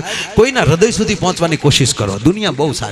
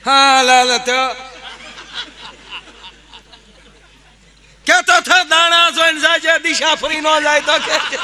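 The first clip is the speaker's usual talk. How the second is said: thieves bickering; 11 semitones higher than usual. Acted. Thieves keep bickering while running.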